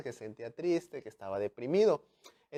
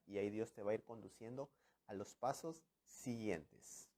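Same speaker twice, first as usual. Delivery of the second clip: whisper; 4 semitones lower, 11 dB quieter than usual. Real, not acted. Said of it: "sermon aside drops to whisper".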